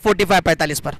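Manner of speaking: lively cricket play-by-play; live commentary. Acted. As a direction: call the match as it happens.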